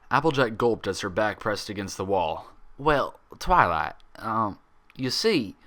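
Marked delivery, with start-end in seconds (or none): 2.8-5.6 slow, hesitant, cornered; nervous stalling. Acted. Applejack backed against the wall by Twilight, slow nervous stalling.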